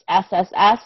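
hissed S like a snake; snake sound. Shown as a demonstration. Teacher showing the snake sound for S. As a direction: let each S hiss like a snake. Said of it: "like a snake sound".

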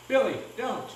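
high, urgent warning cry. A narrator's reading. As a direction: cry out to hold Billy back. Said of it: "I cried".

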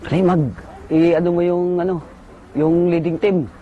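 a hint of an urgent sergeant; lightly voiced sergeant. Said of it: "Sabi niya". (bahagyang ginaya ang nagmamadaling sarhento)

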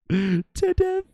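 high, loud, punchy shout; shouted payoff. Acted. Streamer hyping raiders with a loud shout. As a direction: burst out loud on the reveal.

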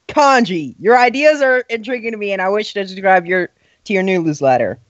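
a touch of a formal meme reading; lightly voiced deadpan meme read. Shown as a demonstration. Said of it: "You read it like this".

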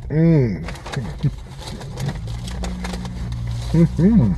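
talking while chewing food; muffled closed-mouth laugh; mouth full chewing. Real, not acted. Seen 0: Bit burrito at -1.0; closed mouth chewing through labelled stretch.

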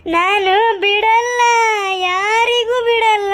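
put-on slow, tearful drunk sobbing out his threats; weepy slurred lament; drunken weeping. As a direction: cry it out like a drunk who has lost everything. Drunk man weeping over empty bottle.

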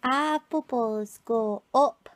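slow, broad Brummie reading; Birmingham accent. Shown as a demonstration. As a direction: give it a strong Birmingham lilt. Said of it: "teach Clarice a Birmingham accent".

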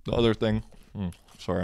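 talking with mouth full. Real, not acted. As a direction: speak through a bite of food. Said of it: "I'm talking with my mouth full".

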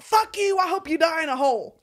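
high, loud mock snarl at the agent; hammed-up angry caller hanging up. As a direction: curse him out like a furious customer. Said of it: "he'd be like".

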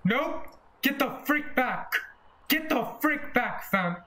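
high panicked shouts at the monster; screaming at it to back off; panicked yelling. Real, not acted. Player fending off a monster, high panicked yells.

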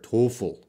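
"toefl" as one two-syllable word, TOE-ful. Shown as a demonstration. Teacher showing class how the acronym is said, "toefl" as one word. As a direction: say "toefl" as a word, not letters. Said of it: "we say it as a new word".

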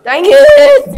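cracks high and loud on the curse; a real voice break mid-shout; voice cracking. Real, not acted. Boy's voice breaking as he curses at a missed moment. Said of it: "the voice cr-, crack".

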